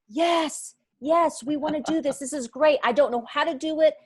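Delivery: quoting the ladies' reply high and eager; bright, eager yes, yes from the group; excited ladies. Retold or imitated.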